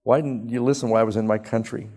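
loud, bitter complaint to God; angry prayer. Acted. Jonah complaining loudly to God over Nineveh, angry prayer. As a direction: Jonah railing at the Lord for sparing them. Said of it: "And he prays".

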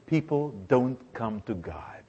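whispered, soft, driving it home; hushed point. Real, not acted. Preacher to congregation, whispered and soft. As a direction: breathe it, let it sink in.

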